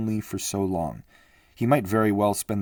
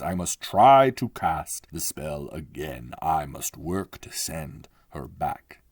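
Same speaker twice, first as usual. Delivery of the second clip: put-on a touch of a worried old magician; magician's voice; 4 dB louder than usual. Magician speaks in his cell.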